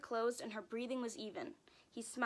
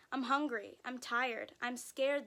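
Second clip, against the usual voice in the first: put-on crying baby; 4 dB louder, slower than usual. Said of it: "the baby cried".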